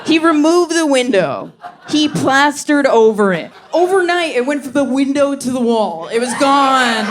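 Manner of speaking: high, amazed retelling; incredulous. Real, not acted. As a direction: tell it in disbelief.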